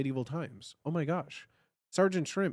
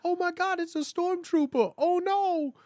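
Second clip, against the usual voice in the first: much higher, giddy pretend panic; mock fright; 13 semitones higher, 3 dB louder than usual. Fan spotting a stormtrooper, giddy mock alarm. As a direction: squeal at a stormtrooper. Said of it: "I'm like".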